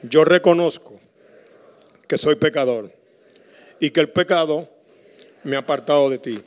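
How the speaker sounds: slow, measured prayer for the church to repeat; earnest congregational prayer; leading prayer. Acted. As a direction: pause so the people can repeat each phrase.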